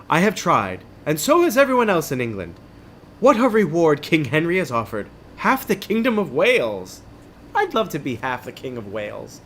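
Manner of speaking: animated English knight; English-accented knight. Acted. Knight telling companion of the king's reward, English accent. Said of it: "an English accent and the other one doesn't".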